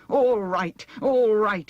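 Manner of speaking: high, loud panicked wail; terrified wail. A narrator's reading. Shaken Wheeler giving in, high terrified wail. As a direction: wail it out in terror. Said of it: "he wailed in terror".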